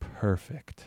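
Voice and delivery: low, soft, half-breathed mutter under the breath. Retelling what the girl at the smoothie counter said: imitating someone muttering under her breath. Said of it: "under her breath saying".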